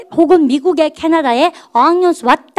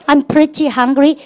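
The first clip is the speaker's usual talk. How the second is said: slow model sentence; much slower than usual. Shown as a demonstration. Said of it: "해보세요".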